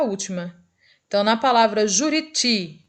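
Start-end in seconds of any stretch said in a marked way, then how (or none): 1.9-2.8 "Juriti" with the weight on final TI; final-syllable stress. Shown as a demonstration. Teacher giving an oxytone example, "Juriti" stressed on TI. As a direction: lean on the last ti of "Juriti". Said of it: "por ser o mais forte".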